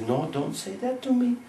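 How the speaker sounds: high, begging lover's voice; pleading Krishna. Acted. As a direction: plead with her like a heartbroken boy. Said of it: "And Krishna says".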